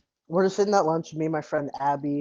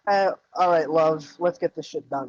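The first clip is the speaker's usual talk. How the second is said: put-on British accent; 4 dB louder than usual.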